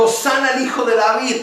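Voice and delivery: shouting disciples. Retold or imitated. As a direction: cry it out as the disciples proclaim. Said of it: "venían gritando".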